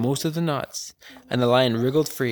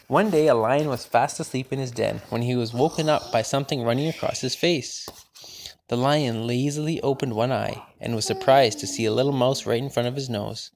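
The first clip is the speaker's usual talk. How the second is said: story reading. Acted. Older sibling reads story.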